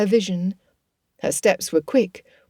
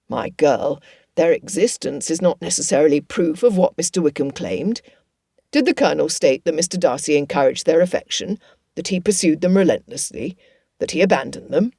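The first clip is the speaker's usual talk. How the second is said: a slightly lower, patient fatherly voice; lightly voiced gentle father; 3 semitones lower than usual. Father reasoning with his tearful daughter, lightly lower.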